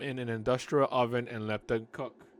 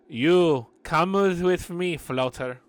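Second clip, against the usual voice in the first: gruff tough voice; 5 semitones higher, 8 dB louder, slower than usual. Acted. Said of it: "female Robert De Niro".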